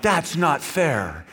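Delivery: drawn-out mock protest; mock objection. Preacher voicing his listeners' objection, drawn-out mock protest.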